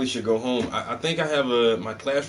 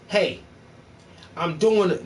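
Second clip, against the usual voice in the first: lightly raised, silly take on the pitch; mock goofy greeting; 6 semitones higher than usual. Shown as a demonstration. Streamer mocking his own pitch, a lightly silly voice. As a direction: play it dumb to show the wrong way. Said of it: "I'm not gonna really say it like that".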